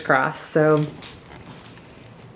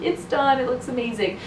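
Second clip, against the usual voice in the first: imagined upbeat ending; 6 semitones higher than usual. Retold or imitated. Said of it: "I thought I was gonna end this on like".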